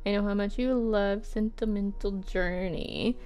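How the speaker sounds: measured, expressive reading; love letter read-aloud. Acted. Writer to Anne about missing her, lightly performed letter reading.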